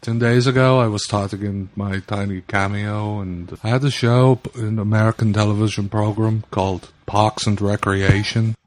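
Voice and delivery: put-on a better Herzog with a low-key German accent; Werner Herzog accent. Cohost shows how Herzog's German accent should sound. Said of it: "That was terrible. It's not".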